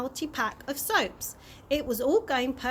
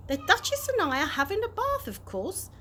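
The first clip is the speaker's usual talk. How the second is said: matter-of-fact; 8 semitones higher than usual. Acted. Tramp explains matter-of-factly.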